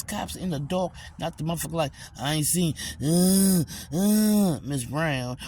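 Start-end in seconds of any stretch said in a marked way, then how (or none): 2.2-5.4 loud hesitant uh uh; mock excuse. Mocking a neighbor's stammering excuse, loud.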